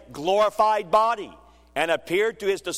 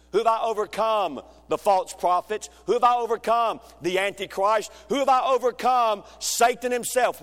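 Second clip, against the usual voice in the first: building preaching call and response; 3 semitones higher than usual. Real, not acted. Rising rhetorical preaching questions.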